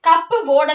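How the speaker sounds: "കപ്പ് ബോർഡ്" as two words, CUP-board; wrongly sounded P. Shown as a demonstration. Teacher showing what not to say, P voiced in "കപ്പ് ബോർഡ്". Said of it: "എന്നല്ല പറയുന്നത്".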